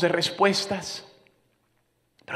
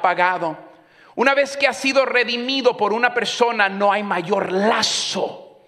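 loud, raised preaching; fervent loud sermon; preaching at full force; 6 semitones higher, 6 dB louder than usual. Real, not acted. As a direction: proclaim it to the congregation.

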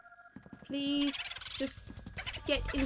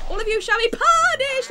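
hammed-up threat; 7 semitones higher, 10 dB louder than usual. Mock villain threat to ghosts.

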